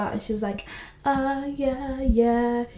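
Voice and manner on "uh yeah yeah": higher, hesitant mock stalling; flustered rambling. Heroine cornered by her ex's questions, flustered. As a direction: imitate someone fumbling for an answer. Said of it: "She rambles, she doesn't know what she's saying".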